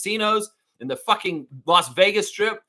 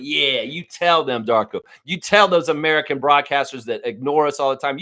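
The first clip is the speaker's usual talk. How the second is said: cheering him on; 5 dB louder than usual. Retold or imitated. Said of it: "And I'm like".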